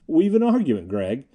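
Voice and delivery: plain reading voice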